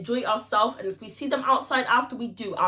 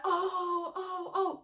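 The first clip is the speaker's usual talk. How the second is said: high, soft teasing oh; mock the guys egging it on; imitating the guys; 7 semitones higher, 11 dB quieter, much slower than usual. Friends' crowd reaction, imitated teasing oohs. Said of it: "All of the guys are like".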